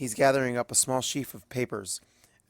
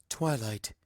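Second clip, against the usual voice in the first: firm cutoff; 4 dB quieter than usual. A narrator's reading. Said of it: "a tone that suggests the matter isn't open".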